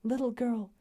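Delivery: the same words echoed up high. Acted. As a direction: lift it as she remembers. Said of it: "words he had used to Lucy".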